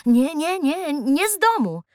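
nervous stammered denial; stammering. Acted. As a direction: stumble over the words in fright. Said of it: "wyjąkał Razmus".

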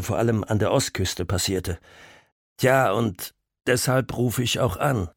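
lightly voiced older officer, hesitant; a hint of a friendly old cop; older policeman voice. Caller speaks, older policeman.

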